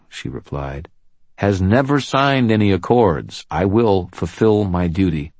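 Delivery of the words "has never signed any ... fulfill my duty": raised, commanding lawwoman voice; firm policewoman. Acted. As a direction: stand your ground, loud and firm. Murphy stands firm.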